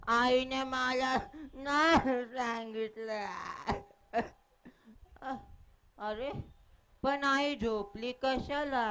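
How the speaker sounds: lightly voiced small child, pleading and puzzled; a boy who cannot grasp his mother is gone, halting and stumbling; innocent child. Child begs his sleeping mother to wake, gently pleading.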